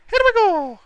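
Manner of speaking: high, loud excited call. Real, not acted. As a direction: shout it with sudden excitement. Excited repeat at start.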